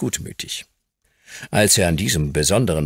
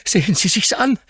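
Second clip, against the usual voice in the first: panting; 4 dB louder than usual. Acted. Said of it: "keuchte Dick".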